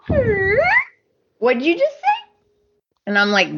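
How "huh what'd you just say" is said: high, startled question; hammed-up shocked double take; mock surprised huh. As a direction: play her caught off guard, pitch jumping up. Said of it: "She's like".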